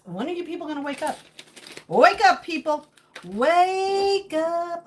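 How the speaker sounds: loud mock wake-up call; hammed-up call to wake up; mock rant. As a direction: rouse the sheep like a conspiracy preacher. Mock conspiracy rant to viewers.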